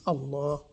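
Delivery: "Allah" with a held L; "Allah", double L and long A; stretched out. Shown as a demonstration. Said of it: "gonna stretch it out a little".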